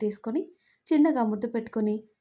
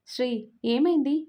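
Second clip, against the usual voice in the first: calling out; 3 semitones higher, 3 dB louder than usual. Acted. Calls out to Sri from car.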